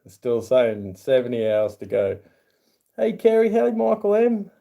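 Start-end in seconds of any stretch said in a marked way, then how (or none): 3.0-4.5 high bright hello, pitched well up; upbeat high call of hey; cheery viewer greeting. Real, not acted. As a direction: sing out a welcome to a new viewer.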